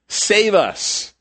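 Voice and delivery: high sharp cry for rescue; frantic shout from a boat going down; desperate plea. Retold or imitated. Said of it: "they're saying".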